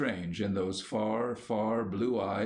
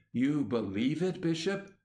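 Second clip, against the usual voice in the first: sudden eager question rising high; bursting forth; 4 semitones higher than usual. A narrator's reading. Newbold suddenly pressing the bishop on belief, bursting out. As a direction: blurt it out at once. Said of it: "Newbold burst forth".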